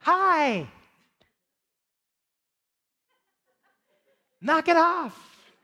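firm mock scolding. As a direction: lean in and scold slowly, half laughing. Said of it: "I leaned in and I said".

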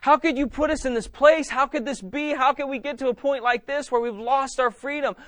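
high, desperate begging; tearful pleading prayer. Acted. Panicked churchgoers praying to be saved, tearful high pleading. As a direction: plead urgently, piling up each please. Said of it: "weeping and crying and like".

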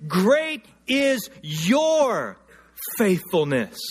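Great is your stretched very slowly; drawn-out climax. Acted. Preacher lifting up the verse's last words, very slow.

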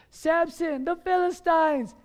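high, urgent call; alarmed warning cry. Acted. Delilah wakes Samson as Philistines attack, alarmed warning cry.

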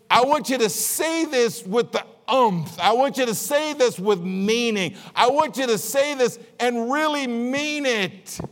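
high, forceful "want" hit hard each time; emphatic insistence. Retold or imitated. Priest demanding the blessing be said with meaning, emphatic. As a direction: press every line like a demand. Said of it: "Because he says".

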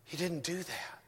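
soft whisper; hushed whispered point. Real, not acted. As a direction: drop to a whisper for weight. Hushed aside after angels quote.

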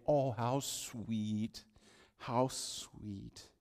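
slow, soft gushing. Pretend. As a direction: melt over the sweet name. Pastor gushing over name.

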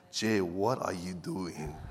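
low, soft and slow; still small voice. Pretend. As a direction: murmur it like a voice in the ear. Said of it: "still small voice".

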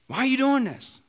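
high loud pleading why; exasperated shout; exasperated cry. Pretend. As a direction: cry out the question in frustration. Self-confrontation.

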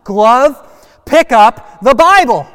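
high, drawn-out shouted command; loud shout. Shown as a demonstration. Pastor has kids shout at the glove, loud and stretched. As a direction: shout it so the whole valley hears. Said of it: "We need to say it so loud".

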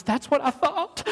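imitated crying woman. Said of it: "she just starts crying".

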